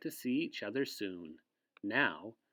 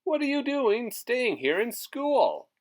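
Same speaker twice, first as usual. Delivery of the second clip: high, loud, frantic yell; loud, high worried father's yell; 12 semitones higher, 10 dB louder than usual. Acted. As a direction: shout it like a panicked dad. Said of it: "He yelled".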